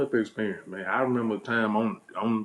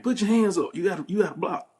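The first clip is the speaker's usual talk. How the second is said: bossy cousin coach; 6 semitones higher than usual. Retold or imitated. Cousin giving fight instructions.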